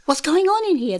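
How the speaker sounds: high-pitched retold demand to a class; acted demand. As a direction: call over the noise, lightly acted. Acted entry into uproarious class.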